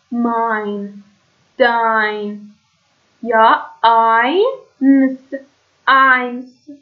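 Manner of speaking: «ماین», «داین», «آینس» each with an "eye" glide; "ai" diphthong. Shown as a demonstration. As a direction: model «ماین», «داین», «آینس» slowly, one by one. («ماین»، «داین»، «آینس» شمرده با صدای آی)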